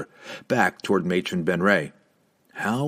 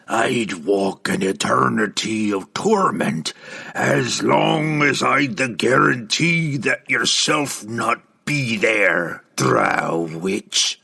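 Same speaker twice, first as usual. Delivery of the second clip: gravelly voice; 2 semitones higher, slower than usual. Acted. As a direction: growl it with gravel in the throat. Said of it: "the ghost replied in its gravelly voice".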